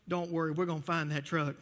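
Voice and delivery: low, calming mock-sergeant reassurance; lightly acted comforting officer; reassuring. Sergeant comforting tearful Bubba in joke.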